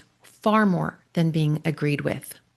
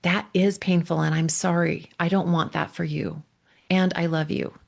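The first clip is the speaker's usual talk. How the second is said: tender reassurance. Shown as a demonstration. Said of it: "We're just saying".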